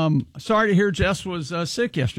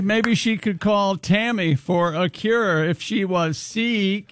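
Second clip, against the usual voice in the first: slow pun delivery; slower than usual. Pretend. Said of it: "so high and inside".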